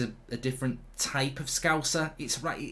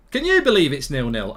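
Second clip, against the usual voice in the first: disbelief; 7 dB louder than usual. Real, not acted. Repeating disbelief at the score.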